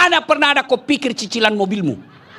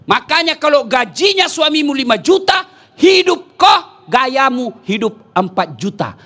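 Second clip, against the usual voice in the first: shouting rebuke; 3 semitones higher than usual. Real, not acted. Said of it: "preacher shouts rebuke".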